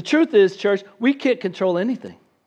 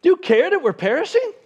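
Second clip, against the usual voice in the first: accusing plea; 9 semitones higher than usual. Retold or imitated. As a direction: blame the sleeping teacher. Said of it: "Instead, they say".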